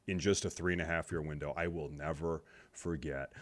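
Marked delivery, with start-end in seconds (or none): 1.6-3.3 quiet vow. Real, not acted. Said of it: "repeated vow".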